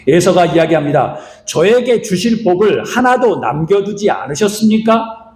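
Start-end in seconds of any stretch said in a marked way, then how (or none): 1.4-5.3 slow, a touch of tears; crying question. Retold or imitated. Esau asking his father, slow and lightly tearful. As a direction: ask slowly, mildly tearful. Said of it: "울면서 묻습니다".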